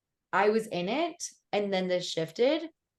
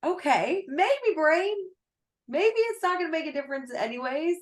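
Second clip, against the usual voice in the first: mock brain voice; 8 semitones higher, 3 dB louder than usual. Mocking the client's brain.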